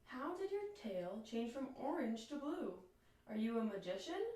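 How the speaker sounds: mild wonder in a light bird voice; enchanted. Acted. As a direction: ask with gentle delight.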